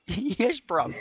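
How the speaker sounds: high mock London chav; jokey London hooligan swagger; London chav accent. Host teasing Ulysses in mock London chav. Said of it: "I'll be like".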